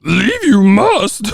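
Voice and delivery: high, drawn-out mock creature voice; Yoda. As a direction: read it slowly like a baffled alien sage. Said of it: "they talking like Yoda and shit".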